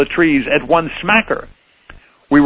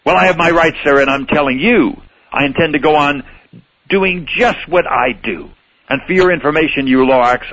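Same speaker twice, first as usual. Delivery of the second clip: mock yelling. Onceler yelling back at the Lorax, defiant rant. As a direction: shout him down, mildly. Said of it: "I yelled at the Lorax".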